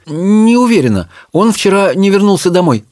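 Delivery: high, unsure reply; faltering, not sure what to say; hesitant. A narrator's reading. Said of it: "замялась Чармейн".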